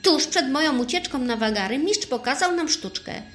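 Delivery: high, loud burst of excitement; excited cry. A narrator's reading. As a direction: exclaim it like a sudden brainwave. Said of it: "krzyknął Nieuczek nagle".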